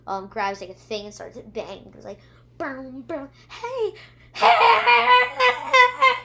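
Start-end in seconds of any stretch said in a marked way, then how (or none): 2.6-6.1 climbing to a high, loud laughing yell; calling out. Acted. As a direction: bang and yell to draw the beast. Yasmina distracts the dinosaur.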